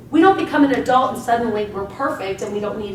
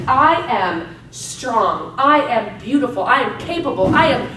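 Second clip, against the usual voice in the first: confident affirmations; 3 dB louder than usual. Shown as a demonstration. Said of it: "Put your positive affirmations up there".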